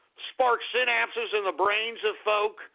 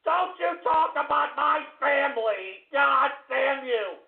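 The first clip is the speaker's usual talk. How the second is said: drawn-out angry yell; slower than usual. Real, not acted. Drawn-out furious outburst.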